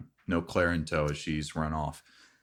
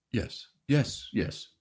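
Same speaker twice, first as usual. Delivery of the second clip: eager NPC voice; 6 semitones higher, slower than usual. Acted.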